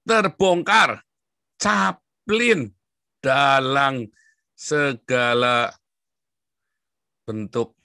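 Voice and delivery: loud, high headline shout; dramatic announcement. Acted. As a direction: announce like a tabloid teaser.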